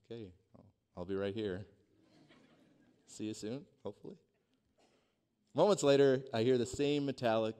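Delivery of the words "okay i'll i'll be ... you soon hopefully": small, low, quiet answer; meek reply. Retold or imitated. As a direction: answer softly and meekly, tailing off. Meek reply to the yelling rescuers.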